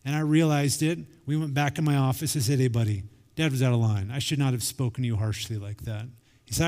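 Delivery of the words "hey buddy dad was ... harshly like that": lower-pitched, owning up to a son; retold apology. Dad apologizing to son in office, low and contrite. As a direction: imitate a dad's low-key apology.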